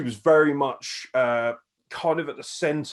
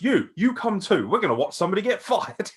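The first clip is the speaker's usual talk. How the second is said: mock gleeful heel; 9 semitones higher, 4 dB louder than usual. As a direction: gloat into the camera. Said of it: "looks at the camera and goes".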